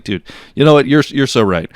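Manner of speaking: loud mock-agreeing retort; sarcastic comeback. Bartender teasing an Irish line-cutter, loud sarcastic comeback. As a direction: pile on loud, fake praise.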